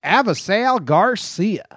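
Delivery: hammed-up announcer name call; Bob Uecker. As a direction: stretch the name with broadcaster relish. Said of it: "I'd love to hear Bob Uecker, like, overemphasize".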